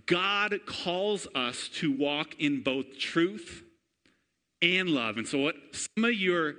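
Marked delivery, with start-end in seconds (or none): 0.1-5.2 slow emphasis. Real, not acted. Sermon key point.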